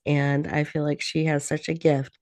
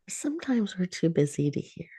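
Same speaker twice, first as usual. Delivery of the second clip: hushed whisper, softer than the lines around it; 4 semitones higher, 5 dB quieter than usual. Acted. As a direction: lean in and whisper it gently. Meditation, listening to heart.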